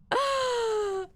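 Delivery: sudden high-pitched laugh; a squeaky burst of laughter; nervous giggle at the ghost. Real, not acted. Laughs after pleading with ghost.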